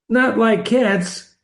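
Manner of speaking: slightly shrill, slow indignant mouse; shrill, passionate. A narrator's reading. Mouse objecting to the girl's talk of cats, mildly shrill. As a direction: raise the pitch and stretch each word. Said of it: "in a shrill, passionate voice".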